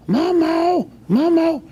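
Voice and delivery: high, loud imitation of his mother; yelling a name. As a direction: call out like the old lady. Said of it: "I yelled out".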